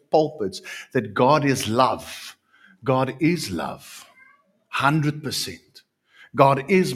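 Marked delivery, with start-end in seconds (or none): none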